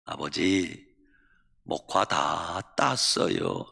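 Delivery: low, slow, soft-spoken dutiful daughter; acted gentle deference; polite, meek reply. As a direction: answer father humbly, drawing the words out. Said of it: "공손하게 대답합니다".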